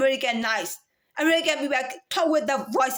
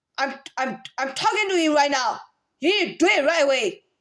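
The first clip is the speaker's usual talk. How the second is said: really mad, forceful, commanding angry tone. Demonstrating how they sound when really mad: angry voice. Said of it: "When I'm mad, really mad, ... That's my angry voices".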